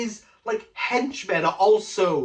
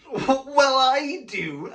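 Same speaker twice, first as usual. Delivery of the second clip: indignant ex; 7 semitones higher, 4 dB louder, much slower than usual. Retold or imitated. Ex confronting him indignantly.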